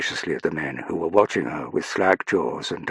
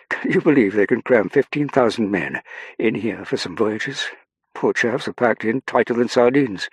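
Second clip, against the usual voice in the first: higher-pitched, chatty upper-class Englishman; upper-class English officer; 5 semitones higher, 5 dB louder than usual. Acted. Colville telling Saffron about the crammed ship, upper-class chattiness. Colville chats climbing the stairs.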